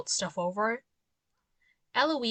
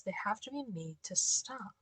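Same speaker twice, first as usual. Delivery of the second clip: whispering; 7 dB quieter than usual. Acted. Reading creepy warden's note.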